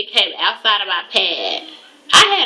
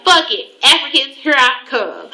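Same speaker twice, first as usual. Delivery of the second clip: fed-up exclamation; 5 semitones higher than usual. Retold or imitated. Fed-up decision, loud.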